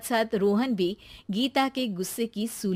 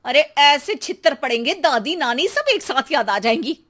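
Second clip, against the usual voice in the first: threatening mother; 4 semitones higher, 4 dB louder than usual. Acted.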